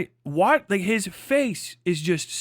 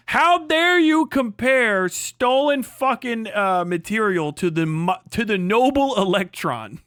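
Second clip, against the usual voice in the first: mock indignation; 3 semitones higher, 3 dB louder than usual. Mock indignant outburst at electricity comparison.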